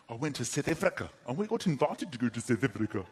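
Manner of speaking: put-on light South African accent. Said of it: "I'm sorry to do the accent".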